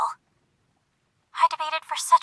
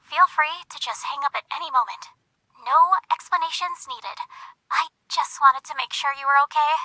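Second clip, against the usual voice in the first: softer, apologetic explanation; soft reassurance; 6 dB quieter than usual. Acted. Caller making sure the friend is okay, softly apologetic. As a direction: ease off, quietly reassuring.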